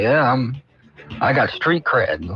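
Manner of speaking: lightly voiced low old man; gruff little boast, slowly; grandpa voice. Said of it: "He's like".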